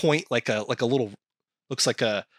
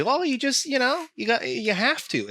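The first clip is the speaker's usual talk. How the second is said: high, whiny parody of advice-givers; a nasal put-on mock voice; mocking know-it-all; 13 semitones higher than usual. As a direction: sneer at the glib advice. Mocking people who say move on.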